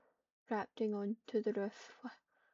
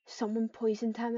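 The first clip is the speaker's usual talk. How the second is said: hissed; 6 dB louder than usual. Acted. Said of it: "it hissed".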